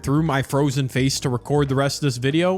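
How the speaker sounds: numb mouth, slightly slurred; talking through a numb mouth; numb from the dentist. Real, not acted. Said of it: "my entire face is frozen".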